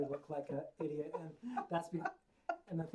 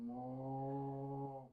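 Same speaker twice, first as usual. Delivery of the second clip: softer moo. Acted. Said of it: "my best moo".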